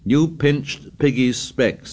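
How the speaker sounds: slow, breathless accusation. Acted. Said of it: "said Ralph breathlessly".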